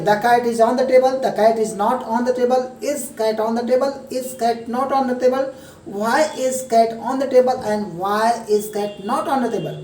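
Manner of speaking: very slow, each English word spaced out; slow demo. Shown as a demonstration. Teacher slowly modelling the English sentences, slow. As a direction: lay every word down slowly and clearly. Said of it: "मैं तो समझाने के लिए आपको slow बोल रहा हूँ".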